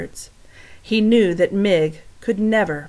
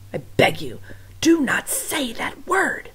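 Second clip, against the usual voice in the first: pleading whisper; 7 semitones higher than usual. Acted. Louise begging the cook not to say it, whispered. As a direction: beg her in a hush.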